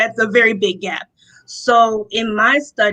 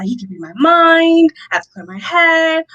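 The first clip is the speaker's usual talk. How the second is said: higher, louder mock-panicked thought; mild retold panic; 7 semitones higher, 4 dB louder than usual. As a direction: act out a touch of rising panic. Her panicked thoughts under his gaze.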